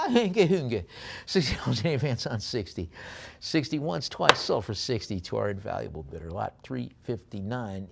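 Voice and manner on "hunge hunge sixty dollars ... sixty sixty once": mock Norwegian. Auctioneer joking about Norwegian spoons, mock Norwegian. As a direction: play at Norwegian with nonsense words. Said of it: "These are Norwegian".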